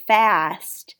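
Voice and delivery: fast with a long open "a" as in cat; drawn-out true vowel. Shown as a demonstration. Teacher recalling how we say breakfast, fast with a long "a". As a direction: stretch the "a" in fast, not "fest". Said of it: "really it's a sound".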